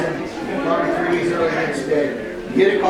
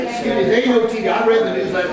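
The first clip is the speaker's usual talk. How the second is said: fast, higher, indignant; indignant retort; 5 semitones higher, faster than usual. Retold or imitated. Guest on phone complaining there ain't no TV, fast and indignant. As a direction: rattle it off, offended.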